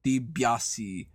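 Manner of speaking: DiBiase slowed in a mock French accent; hint of a French accent on DiBiase; Andre's accent on DiBiase. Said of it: "'cause of his accent".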